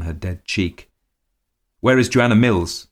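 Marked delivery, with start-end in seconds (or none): 1.8-2.9 sudden, higher, louder demand; abrupt. A narrator's reading. Husband suddenly demanding the housekeeper from his wife, abrupt. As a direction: break in with an abrupt question. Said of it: "he abruptly asked his wife".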